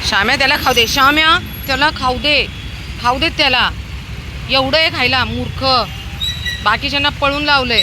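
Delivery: high, forceful telling-off; loud scolding. Real, not acted. Feeder scolding dog who chased the others off, loud rebuke. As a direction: raise your voice at a dog hogging food.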